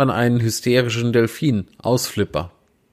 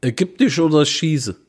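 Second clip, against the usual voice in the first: higher Saxon dialect cop voice; mock Saxon accent, higher pitch; Saxon police officer; 5 semitones higher than usual. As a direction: bark it like a Saxon traffic cop. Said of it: "Polizist mit sächsischem Dialekt".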